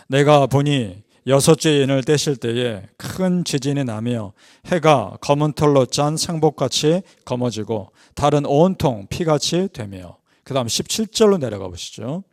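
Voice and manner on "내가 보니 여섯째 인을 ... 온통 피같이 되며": slow, solemn Bible recitation; scripture reading. Acted. Preacher reads the sixth seal to the congregation, slow scripture reading. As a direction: read each phrase out deliberately.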